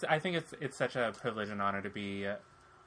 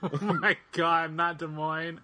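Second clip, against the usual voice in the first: laughing; 5 semitones higher, 5 dB louder, slower than usual. Real, not acted.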